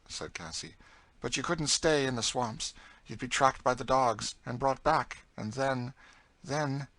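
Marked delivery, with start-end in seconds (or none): 1.2-6.9 raised, forceful warning; louder, hard-edged story voice; grim older captive character. Acted. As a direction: warn grimly, breaking off on a dread thought. Story figure, grim Cassie.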